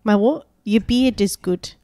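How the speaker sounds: put-on lightly done New Zealand accent quoting the show; a hint of a Kiwi, deadpan. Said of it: "New Zealand accent with quotes from the show".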